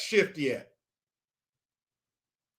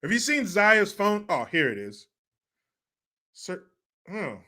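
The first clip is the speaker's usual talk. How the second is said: 1 Gabrielle Union impression; 2 semitones higher than usual. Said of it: "impression of Gabrielle Union at home".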